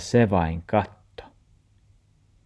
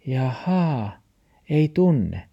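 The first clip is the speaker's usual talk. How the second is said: 1 dog voice; 6 semitones higher, slower than usual. Acted. Dog character answers.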